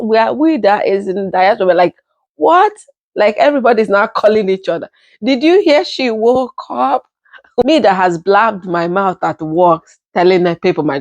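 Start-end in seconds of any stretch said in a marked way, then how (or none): 2.4-2.7 high, stunned "What?"; a sharp disbelieving rising "What?"; incredulous cry of what; shocked what. Retold or imitated. Diaspora reacting in shock. 5.2-7.0 higher, eager gossip voice; gossiping excitedly. Retold or imitated. Relatives phoning each other.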